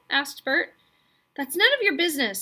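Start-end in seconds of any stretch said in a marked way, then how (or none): 1.4-2.4 fast, higher, sharp retort; a boy trying to sound fierce, spitting it out; spat out. A narrator's reading. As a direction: spit the words back at him. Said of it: "spat Roderick".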